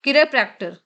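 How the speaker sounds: "chiropractor" said as ki-re-PRAK-tor; pronunciation demo. Shown as a demonstration. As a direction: model "chiropractor" as a careful standalone word. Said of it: "यहाँ पे देखिए लिखा है".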